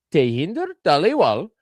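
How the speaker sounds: put-on a light South Asian accent on Tehinder Taliwal. Host reading a news name in a light South Asian accent. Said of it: "You gotta do it with the accent".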